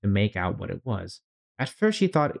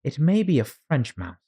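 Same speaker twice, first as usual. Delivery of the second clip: Alice voice; 6 semitones higher than usual. Acted. Alice's thought.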